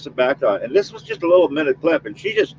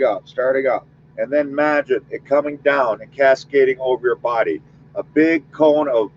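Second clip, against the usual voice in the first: guided visualization. Acted. Medium leading listeners in a white light visualization, calm and steady.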